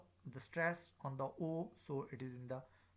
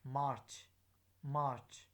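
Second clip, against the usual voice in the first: "march" with a strong, open "ah"; stress on A; 4 dB louder than usual. Shown as a demonstration. Teacher drilling word stress, stressed A in "march". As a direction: lean on the vowel of "march". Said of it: "word stress on a".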